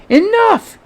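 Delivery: commanding shout. Acted. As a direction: stop the whole brawl with one word. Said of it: "he shouted".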